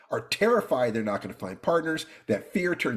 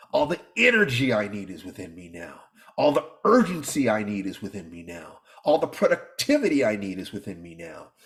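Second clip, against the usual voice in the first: measured self-affirmation, a touch lower than his usual voice; reciting morning affirmations; 3 semitones lower than usual. Shown as a demonstration. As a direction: chant each affirmation like a calm daily ritual. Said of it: "I will literally say that I cap my morning ritual by, by saying".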